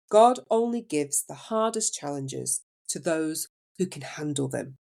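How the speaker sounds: slow, gently imitated Indian accent; soothing Indian accent. Nurse consoling a crying patient, soothing Indian accent. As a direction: reassure softly with an Indian accent. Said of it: "soft and soothing Indian accent".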